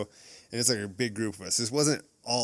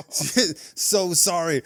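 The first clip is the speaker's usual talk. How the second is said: mock apology; 7 semitones higher, 6 dB louder, much slower than usual. Manager apologizing, retold.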